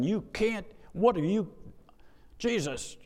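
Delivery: voiced high, a mild mock scolding of Jesus; a lightly hammed-up exasperated disciple; indignant Peter. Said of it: "imagine the tone of voice of Peter".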